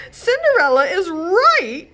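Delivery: high, loud, slow moan. A narrator's reading. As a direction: lament it in tears. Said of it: "she moaned".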